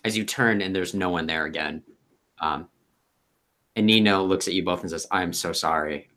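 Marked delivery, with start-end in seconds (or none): 5.1-6.1 embarrassed apology. Acted. Nino apologises for haunting ghosts.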